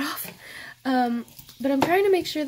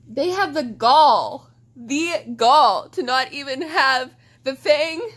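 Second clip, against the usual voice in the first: louder, slow indignant rant; 2 semitones higher, 8 dB louder, slower than usual. Real, not acted. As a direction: stress the outrage. Ranting about the anime ending.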